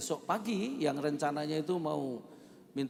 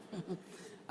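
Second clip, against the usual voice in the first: soft chuckle; 4 semitones higher, 10 dB quieter than usual. Real, not acted. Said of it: "Aku juga ketawa".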